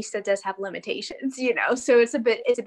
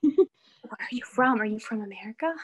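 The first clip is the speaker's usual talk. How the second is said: curious strangers. Retold or imitated. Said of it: "They're like".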